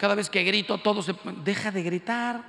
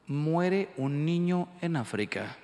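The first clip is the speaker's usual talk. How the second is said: solemn singer; 2 semitones lower, slower than usual. Retold or imitated. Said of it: "Y de pronto dice".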